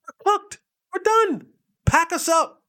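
high, frantic we're-finished cry; panicked pleading. Retold or imitated. Pleading with injured teammate.

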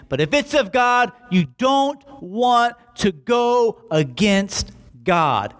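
slow, weighty high warning; solemn warning. Retold or imitated. Teacher Gamaliel warning the council, slow grave caution. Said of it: "his teacher looks at them and says".

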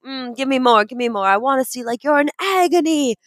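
hammed-up director working up the actor; demanding director. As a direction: start insistent, climb to a theatrical cry. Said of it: "like, a director being like".

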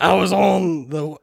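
put-on light, slow Southern accent. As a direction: start the journal with a bit of Southern. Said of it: "that bit of Southern".

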